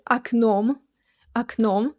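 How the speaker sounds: окном said ak-NOM; окном, a first, full o in the stressed end. Shown as a demonstration. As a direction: say окном with an opening a and stress on the second syllable. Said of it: "the first O sounds like A".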